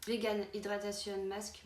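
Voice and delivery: slow, careful English accent on the brand name; names the product in an English accent. Real, not acted. Sounds out the English product name to viewers, in an English accent. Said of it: "désolé pour l'accent anglais".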